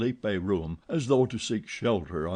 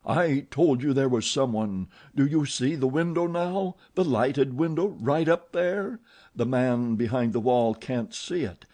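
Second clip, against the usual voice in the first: roaring anger; 3 semitones higher than usual. Acted. Eric roaring at Christine about the window. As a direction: roar it at her. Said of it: "the angry voice roared".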